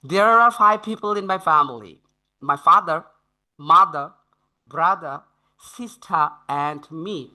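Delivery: very slow, pausing after each family word; slow careful reading. Shown as a demonstration. Teacher models the listening passage slowly for students. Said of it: "শব্দ আপনাকে শুদ্ধ উচ্চারণ শিখতেই হবে".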